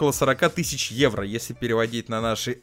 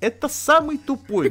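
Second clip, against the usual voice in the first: incredulous; 14 semitones higher, 4 dB louder than usual. Real, not acted. Host mocks dumb dealer.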